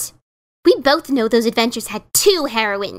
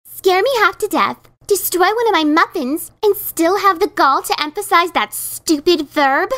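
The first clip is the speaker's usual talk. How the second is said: accusing; 3 semitones higher than usual. Acted. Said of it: "she accused".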